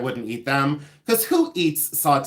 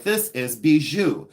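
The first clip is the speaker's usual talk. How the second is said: put-on French accent; slower than usual. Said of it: "gonna be my best French accent".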